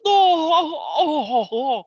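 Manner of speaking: a kicked man whimpering in a high voice; pained Hank. Retold or imitated. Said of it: "he's like".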